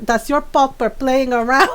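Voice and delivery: put-on matter-of-fact mom with a Filipino accent; imitated Filipino mom. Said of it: "my mom just looks at him and goes".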